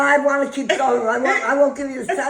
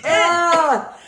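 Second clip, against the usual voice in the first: gasping at spicy heat, laughing; laugh-shout through a burning mouth; mouth burning from spicy food; 4 semitones higher, slower than usual. Real, not acted. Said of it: "My mouth is burning".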